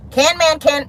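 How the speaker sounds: "Can man" with the middle syllable dropped; mimicked two-syllable "Can man"; child's mispronunciation. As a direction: say "Can man" like a toddler attempting Candyman. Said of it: "not Candyman, but Can Man".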